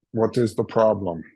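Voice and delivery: lightly attempted Terminator accent; terrible Terminator accent. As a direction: try a rough Terminator-style German accent. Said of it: "Terminator accent. I'll try".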